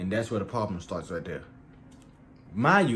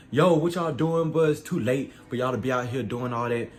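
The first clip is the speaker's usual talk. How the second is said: retold angry yelling; 3 semitones higher, 4 dB louder than usual. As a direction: imitate an angry man confronting trespassers. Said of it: "he comes yelling at us".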